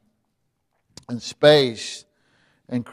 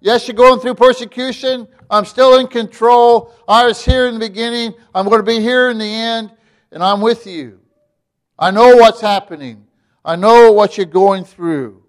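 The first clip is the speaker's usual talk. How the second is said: higher and louder, full pulpit force; preaching voice of God; 5 semitones higher, 5 dB louder than usual. Acted. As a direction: speak as God reassuring the persecuted church. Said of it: "he's just saying to them".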